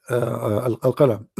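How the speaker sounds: hoarse, strained voice; losing voice. Real, not acted. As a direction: voice giving out, rough and tired. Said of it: "Sorry, I'm losing my voice".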